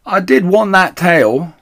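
slow, loud, high whine; disappointed. Acted. The big woman whines, disappointed about the tail. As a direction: whine it like a let-down child.

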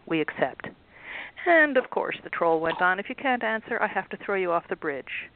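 steady storybook reading voice; story narration. A narrator's reading. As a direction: read the chapter like a bedtime story. Author reads book aloud.

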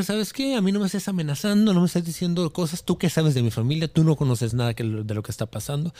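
mildly worked-up quarrel; angry retort. Retold or imitated. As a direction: retell it indignantly, pushing back. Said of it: "yo me encabroné y le dije".

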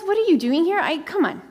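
God calling Elijah out, insistent; a lightly voiced, demanding God; voicing God. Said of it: "And God says".

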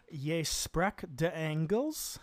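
slow, rising question in halting Dutch; tentative attempt at Dutch. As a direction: try out beginner Dutch as a careful question. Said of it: "and I was like".

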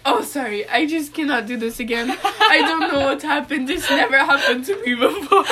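imitated German accent, laughter creeping in. Retelling his second cramp apology, laughing mock German accent. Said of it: "Like, in his accent".

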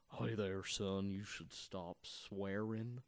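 a hint of a solemn old priest scolding; old English priest. Priest scolding the swearing boy, low and slow. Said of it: "He's like an old Englishman".

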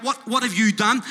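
loud accusing cry; screaming out. Acted. Preacher voicing blood that screams judgment, crying out loudly. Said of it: "It's not screaming out".

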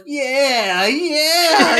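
high, loud, drawn-out goofy yell; Pat Patterson. Retold or imitated. Host mimics old wrestler yelling at his rival, goofy yell. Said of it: "he's, like, yelling at this guy".

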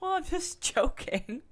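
high, slow protest through a laugh; playful high-pitched backpedaling; mock defensive. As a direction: back off in a squeaky, drawn-out whine. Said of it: "And I was like".

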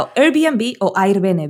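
Airbnb spelled out slowly in Spanish, then once in English; slow contrast, spelled-out Airbnb against English Airbnb. Shown as a demonstration. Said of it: "Una cosa o en otra".

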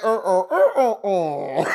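repeated mock grunts of someone falling; imitated falling noises. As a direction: grunt out a comic tumble, beat by beat. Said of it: "She fell like".

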